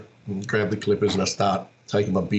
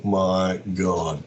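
slow amazed oh my god; 3 semitones lower, much slower than usual. Retold or imitated. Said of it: "I've gone".

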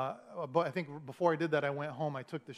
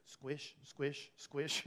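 imitated soggy carpet squish; spaced-out wet squish, squish, squish; squishing footsteps; 8 dB quieter, much slower than usual. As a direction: mimic the sound of soaked carpet underfoot. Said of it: "and you hear".

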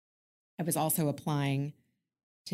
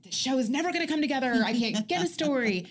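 frustrated rush; 7 semitones higher than usual. Retold or imitated. Retelling a frustrated call to dad.

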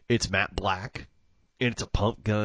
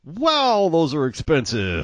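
wow at the price; 7 semitones higher, 7 dB louder, slower than usual. Retold or imitated. Reacting to Benelli prices.

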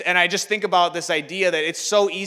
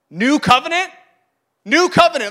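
high, loud incredulous repeat; stunned, pitched-up exclamation; astonished echo; 9 semitones higher, 8 dB louder than usual. Acted. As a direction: throw the words back in disbelief. Startled disciple repeats Jesus's words.

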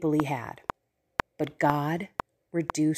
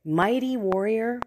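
"Mighty warrior" repeated higher, as a question; amused disbelief; 4 semitones higher than usual. Retold or imitated. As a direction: echo the title as if it were a joke. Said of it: "it's kind of funny".

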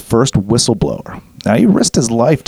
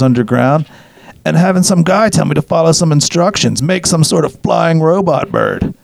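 tripping voice; 3 semitones higher than usual. Acted. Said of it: "Was that your nineteen sixties tripping voice?".

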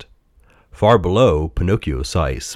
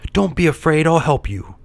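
high puppet voice, encouraging; reassuring puppet; 9 semitones higher than usual. A narrator's reading.

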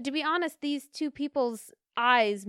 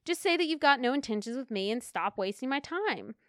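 exasperated retort; 3 semitones higher than usual. Retold or imitated. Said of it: "It's like".

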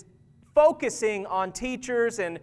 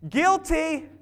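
high confession; 7 semitones higher than usual. Real, not acted. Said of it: "I am, hey".

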